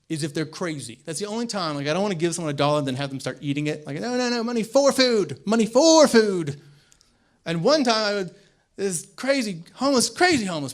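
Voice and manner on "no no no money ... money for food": mock pleading. Comic acts pleading homeless person.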